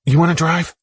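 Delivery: snapped. Acted. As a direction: bite back at her, annoyed and sharp. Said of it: "snapped Daxman".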